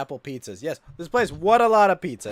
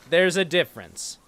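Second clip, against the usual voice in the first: usual speaking voice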